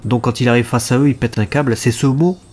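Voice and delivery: talking with a blocked nose; stuffed-up nasal cold voice. Real, not acted. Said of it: "je parle avec le nez bouché". (voix du nez bouché, enrhumé)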